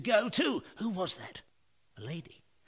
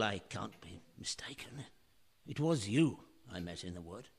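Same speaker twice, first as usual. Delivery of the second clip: hushed, breathless whisper; 9 semitones lower, 8 dB quieter than usual. Acted. Realising he met her in the wood, whispered. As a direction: say it under your breath, stunned. Sudden recognition, hushed aside.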